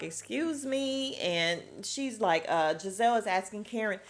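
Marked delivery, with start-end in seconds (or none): 0.0-1.2 slow, affronted excuse me; slow offended retort. Retold or imitated. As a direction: draw it out like you're insulted. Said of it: "and Mia's like".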